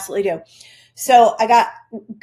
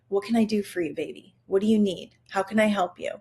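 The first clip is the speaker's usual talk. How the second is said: put-on softer, gentle coaxing voice to a child; lighthearted mom; 4 dB quieter, faster than usual. Mother to her crabby child in the morning, softly tender. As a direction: sweeten it for a crabby kid. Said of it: "be a little more lighthearted".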